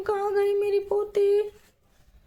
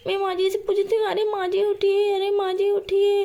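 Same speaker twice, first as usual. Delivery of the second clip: put-on worried young mother calling out, a little higher; panicked mother; 4 semitones higher than usual. Mother discovers her baby gone, rising alarm. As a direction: search frantically, rising alarm.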